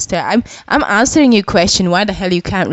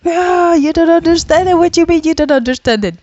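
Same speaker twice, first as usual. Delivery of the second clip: mocking teacher; 10 semitones higher than usual. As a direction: sneer it like a scornful teacher. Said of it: "It'd be like".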